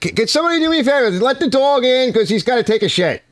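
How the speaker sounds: high, rushed mock pleading; exasperated plea. Dog owner to the household about the dog, exasperated mock plea. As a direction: act out begging the household for one favor.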